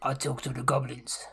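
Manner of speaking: simple, unclear goblin-hunter English; broken English. Acted. Krill tells the group he'll talk, in broken English. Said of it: "it's quite broken and it's awful and it's not too clear".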